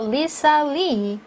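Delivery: "Lisa" and "Lee" each firm and slow; each name stressed. Shown as a demonstration. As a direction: give "Lisa Lee" separate, deliberate beats. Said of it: "강하게 하나하나 해주시고요". ("Lisa Lee"를 하나하나 강하게)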